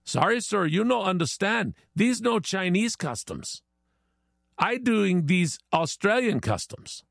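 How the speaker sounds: broken English in a lightly put-on Chinese accent; mock Chinese accent. Chinese man corrects his Aussie neighbor, mock Chinese accent. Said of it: "And the Chinese was taken back".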